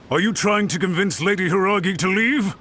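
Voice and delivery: suspicious accusation. Acted. Guard confronts suspected kidnappers.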